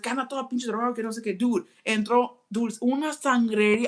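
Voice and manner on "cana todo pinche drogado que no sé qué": dad voice. Retold or imitated. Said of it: "And he was like".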